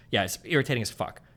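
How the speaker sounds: ordinary delivery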